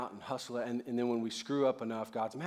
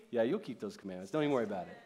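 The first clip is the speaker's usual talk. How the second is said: relaxed and reassuring; casual reassurance; 5 semitones lower, faster than usual. Acted. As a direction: drop lower into an easy, dismissive comfort. Jesus reassuring, dropping from eager invitation.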